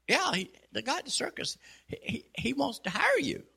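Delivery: bursting to tell him; excited news. Retold or imitated. Clerk telling the duck about the circus, excited.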